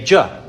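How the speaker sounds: J voiced as a bare "juh"; English J sound. Shown as a demonstration. Preacher contrasts English with Latin, J sounded as "juh". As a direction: make J the consonant sound, not the letter name. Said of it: "when we see a J, we say".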